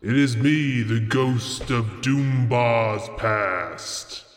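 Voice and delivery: slow, drawn-out ghostly intro; spooky ghost voice. Acted. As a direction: play a ghost announcing itself.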